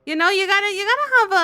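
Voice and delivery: hammed-up Minnesota accent, cheery; chatty Upper Midwest accent, all in. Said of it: "keep this accent here".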